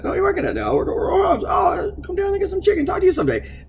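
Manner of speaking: playful high-pitched impression of a friend; imitating friend. Friend quoted while catching up.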